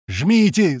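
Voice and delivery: high shouted command; urgent yell. A narrator's reading. Man urging speed through the gorge, urgent yell. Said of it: "снова заорал Рыжий".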